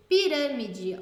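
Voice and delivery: loud "pirâmide" with RÂ punched; stress on RÂ. Shown as a demonstration. Teacher giving a proparoxítona example, RÂ stressed in "pirâmide". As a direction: hit the third-from-last syllable RÂ in "pirâmide". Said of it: "o rã é mais forte".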